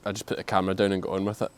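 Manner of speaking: breathless after running; panting between words; out of breath. Real, not acted. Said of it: "you still out of breath?".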